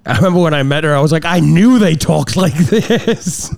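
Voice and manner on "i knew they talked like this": slow imitation Southern belle; put-on Southern belle drawl; Southern belle accent. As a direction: draw it out in a mock Southern US accent. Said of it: "That's that Southern Belle kind of".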